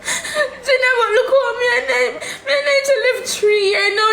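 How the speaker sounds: tearful laughing protest; crying laugh. Real, not acted. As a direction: plead while half sobbing. Daughter upset, laughing and crying.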